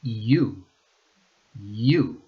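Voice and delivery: You begun with a Spanish I glide, "I-ú"; Spanish I start. Shown as a demonstration. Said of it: "replace it in your mind with the letter I".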